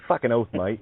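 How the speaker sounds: matey Aussie swearing; Australian accent. Shown as a demonstration. Showing off the Australian accent for a co-host, Australian accent. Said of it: "you know, that stuff".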